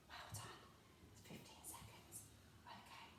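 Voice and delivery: very soft whispered praise. Shown as a demonstration. Teacher confirming the children's answer, whispering. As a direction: keep it right under the breath. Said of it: "Can you whisper it to me this time?".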